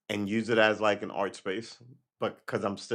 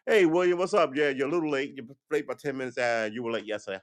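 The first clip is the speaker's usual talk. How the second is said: loud, higher mock call teasing a latecomer; ribbing coworker; 4 semitones higher, 4 dB louder than usual. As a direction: needle him about being late, playful.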